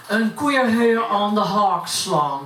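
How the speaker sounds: poem recited in plat Utrechts dialect; broad Utrecht accent. Acted. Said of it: "ik uit Utrecht kom". (plat Utrechts accent)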